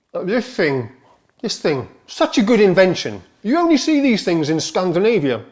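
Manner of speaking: talking while chewing cheese; words pushed round a mouthful; mouth full. Real, not acted. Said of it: "apologies for talking with my mouth full".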